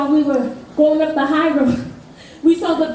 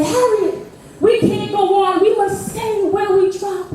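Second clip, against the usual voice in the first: weary pleading; 4 semitones higher than usual. Retold or imitated. Party members pleading to stop.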